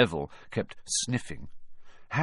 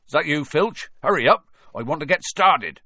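distant shout; 6 semitones higher, 6 dB louder than usual. Acted. Hagrid calling out from afar.

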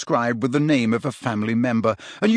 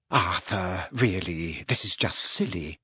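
embarrassed; 6 semitones lower, 6 dB quieter than usual. A narrator's reading. Embarrassed protest.

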